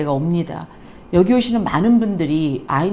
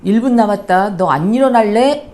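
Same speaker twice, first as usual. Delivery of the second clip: put-on a mother losing patience at a sleeping child; building irritated nagging; angry wake-up call; 4 dB louder than usual. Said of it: "엄마의 감정이 섞여 있죠".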